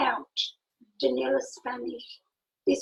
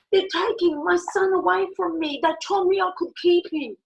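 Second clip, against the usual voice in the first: higher, louder mock-anguished protest; retold distressed cry; 4 semitones higher, 5 dB louder than usual. Mother under regression protesting her son's removal, retold distress. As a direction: imitate a desperate plea, raised but controlled. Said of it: "I start screaming like a maniac".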